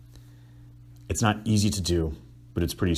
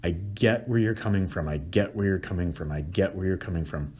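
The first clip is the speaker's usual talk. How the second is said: softening each time; soothing repetition. Shown as a demonstration. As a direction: repeat it gently, calming. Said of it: "repeated validation demo".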